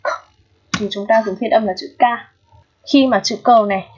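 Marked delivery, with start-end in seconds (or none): 0.0-0.1 k as a bare consonant, not the letter name; k as a short released burst; isolated K sound. Shown as a demonstration. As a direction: sound out k on its own. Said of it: "được phát âm là âm k".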